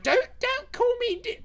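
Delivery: high, loud indignant yell; angry outburst. Acted. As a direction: blurt it out in a high-pitched rage. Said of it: "got really angry".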